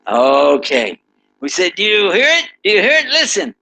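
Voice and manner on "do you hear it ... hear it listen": eager urging. Acted. Urging the man to hear train.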